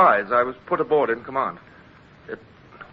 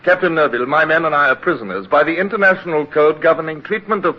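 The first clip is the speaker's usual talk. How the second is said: firm protest; 4 semitones higher, 6 dB louder than usual. Acted. Midshipman insists on prisoners' rights.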